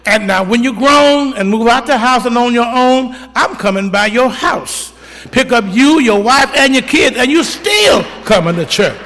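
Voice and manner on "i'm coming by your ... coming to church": preaching build. Real, not acted. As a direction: drive it home to the church.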